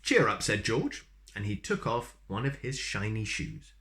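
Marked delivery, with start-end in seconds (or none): 0.0-0.4 cheery call. Acted. George cheers the mouse.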